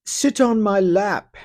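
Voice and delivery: high, mocking sleazy old man voice; hammed-up creep inviting a girl into the tub; disgusting old man. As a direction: sneer it like a lecherous old man. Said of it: "Jumps in naked with you and says".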